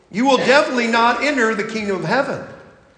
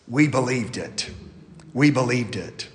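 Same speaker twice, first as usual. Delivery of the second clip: quiet affirmation; 8 semitones lower, 6 dB quieter than usual. Real, not acted.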